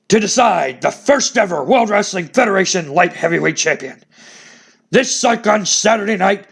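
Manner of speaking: a hint of the boss hyping the tournament; Vince McMahon. Announcing the new title to fans, light announcer voice. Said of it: "So Vince McMahon announcing that".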